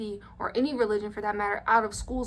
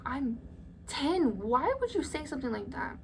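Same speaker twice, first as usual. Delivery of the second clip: higher-pitched, indignant disbelief; incredulous protest; 4 semitones higher than usual. Retold or imitated. Child protesting to women urging her to date a man, incredulous. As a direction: push the pitch up in appalled protest. Retold outrage at women's dating suggestion.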